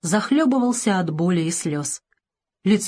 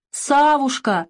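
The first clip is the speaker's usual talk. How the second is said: put-on high, tearful little-boy voice; through tears; 7 semitones higher, much slower than usual. A narrator's reading. Boy tells the doctor his name, tearfully. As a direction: say it while crying like a child. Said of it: "сквозь слёзы отвечал мальчик".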